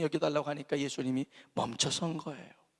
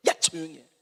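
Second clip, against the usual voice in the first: usual speaking voice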